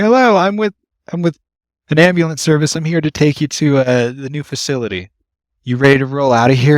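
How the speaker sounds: high, loud, overly friendly; chipper service voice. Retold or imitated. To the patient, high cheerful professional greeting. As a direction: put on the cheerful customer-service tone.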